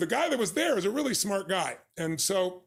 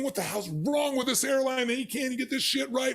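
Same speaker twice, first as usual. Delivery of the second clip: mock angry passengers; 4 semitones higher than usual. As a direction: grumble like furious passengers. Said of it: "They were cursing".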